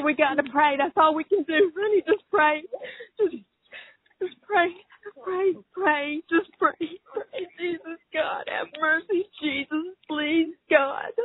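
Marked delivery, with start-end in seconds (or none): 3.2-11.1 barely holding together, whispering to God. Real, not acted. Praying quietly through tears.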